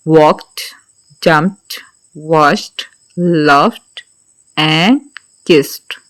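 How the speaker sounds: वॉक्ड, जंप्ड, वॉश्ड, लव्ड and kissed each ending in a crisp t sound. Shown as a demonstration. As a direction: end every word on a clear t, not d. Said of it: "टा के साथ इन सब की ending होनी चाहिए".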